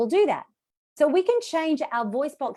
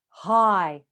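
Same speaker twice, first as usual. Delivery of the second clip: slightly lowered, sustained "Hi"; low hi; 2 semitones lower, 4 dB louder than usual. Shown as a demonstration. Teacher asks students to copy, low dropped-jaw hi. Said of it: "Drop your jaw".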